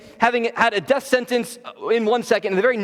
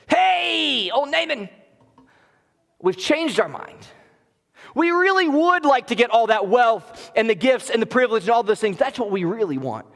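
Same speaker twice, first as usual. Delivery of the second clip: fake-friendly schemer; 4 semitones higher than usual. Gehazi runs after Naaman, scheming.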